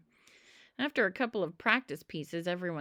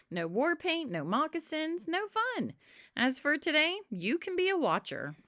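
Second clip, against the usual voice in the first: put-on lightly higher, bossy kid voice; bossy Pinky; 9 semitones higher than usual. Pinky ruling Alvin out of the game, bossy. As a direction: lay down the rules like a know-it-all.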